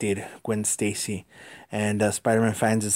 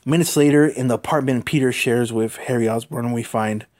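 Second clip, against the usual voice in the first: narration. A narrator's reading. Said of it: "Uh, more narration".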